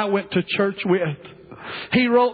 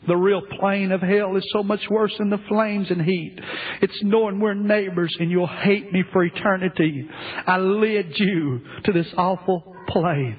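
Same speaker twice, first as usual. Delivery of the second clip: fading lament; 3 semitones lower than usual. Acted. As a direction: let the grief drain the voice away.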